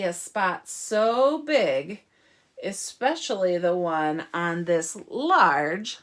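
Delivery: expressive reading with pauses before key words; story reading. Acted. Teacher reads about cows and a pig, expressive story reading. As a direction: draw out the describing words for children. Reads picture book to children.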